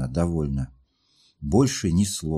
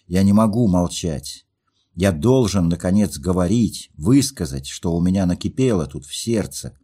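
louder, impassioned confession; passionate outburst; 4 dB louder than usual. Acted. Lovesick narrator pours out his heart to Nastenka, louder. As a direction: let it burst out of him at last.

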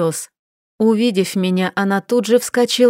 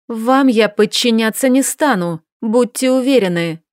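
blurted defiance. Acted. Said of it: "выпалила я".

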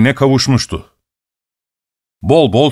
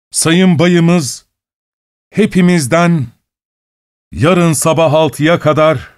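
town crier; 3 semitones higher than usual. Acted. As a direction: call the order out across the courtyard. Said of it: "bangır bangır bağırdığını duydu".

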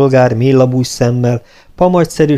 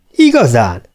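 enchanted little question; delighted, falling exclamation; rapturous interest; 4 dB louder than usual. A narrator's reading. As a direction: ask as if charmed by the news. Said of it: "érdeklődött elragadtatással az altiszt".

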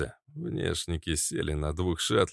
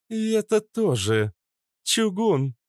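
high, loud sharp call; sharp shout; 14 semitones higher, 4 dB louder than usual. A narrator's reading. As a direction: snap out the name. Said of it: "Резкий окрик нимфы".

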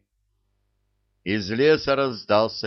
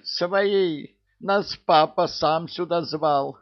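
much higher, loud urgent call; urgent shout; 9 semitones higher, 3 dB louder, slower than usual. Acted. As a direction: shout to be let in. Calling out to guards.

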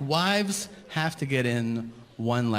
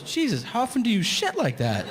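shocked wife; 10 semitones higher than usual. Retold or imitated.

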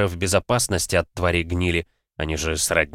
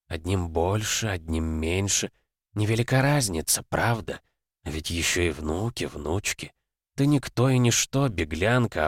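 sultry narrator. Acted. Darkness taunting, soft.

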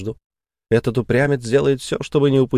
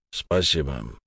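lower, softer curt thanks; dry reply; 8 semitones lower, 6 dB quieter, slower than usual. A narrator's reading. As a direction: clip the thanks off drily. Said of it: "сухо ответил Болт".

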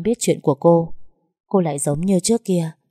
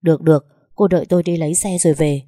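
fast, flustered reply; hurried; 4 dB louder, faster than usual. Acted. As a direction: rush it out, a little louder. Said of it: "Anh vội vàng". (giọng vội vàng, hấp tấp)

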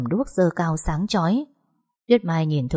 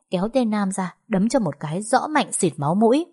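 plain reading voice

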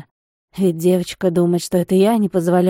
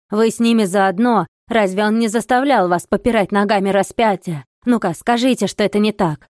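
loud accusing cry, pitched up; shouting; 4 dB louder than usual. Acted. Monk shouts at the abbé pushing him away, accusing. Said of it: "крича".

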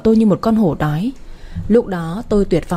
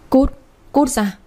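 desperate scream; 2 semitones higher, slower than usual. A narrator's reading. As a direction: scream it out in panic, stretching the words. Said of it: "Tôi vừa gào lên".

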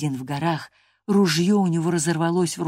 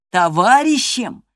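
slow, louder scornful cry; scornful exclamation; 5 semitones higher, 7 dB louder, slower than usual. Acted. Hareton scoffs at the idea of Catherine as his companion. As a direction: spit the word back in disbelief. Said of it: "воскликнул он".

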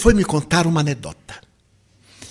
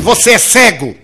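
louder, higher, laughing shout; mock yell; 5 semitones higher, 7 dB louder than usual. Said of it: "E gritei".

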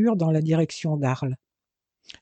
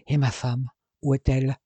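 growled. A narrator's reading. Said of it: "gronda Teddy".

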